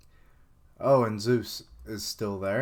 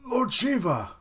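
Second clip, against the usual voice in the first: excited cry; 10 semitones higher than usual. Acted. Crowd voiced crying out to Shiva.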